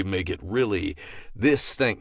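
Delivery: slow, affected promo delivery; drawn-out, cheesy put-on voice. Shown as a demonstration. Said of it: "putting on some sort of weird".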